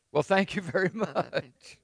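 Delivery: low, soft, wry thanks breaking into a laugh; sarcastic thanks. Acted. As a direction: mutter mock gratitude with a chuckle. Sarcastic reply to dreadful news.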